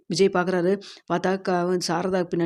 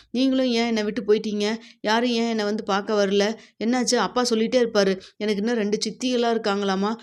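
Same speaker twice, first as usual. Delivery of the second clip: put-on chatty little girl; 3 semitones higher than usual. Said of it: "திரும்ப திரும்ப நிறைய கேள்வி கேட்குது".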